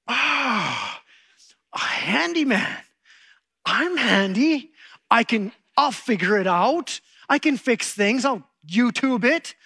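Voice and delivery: mock boasting DIY guy; cocky handyman. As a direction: play the proud fixer who thinks he can do it all. Struts around as the cocky handyman.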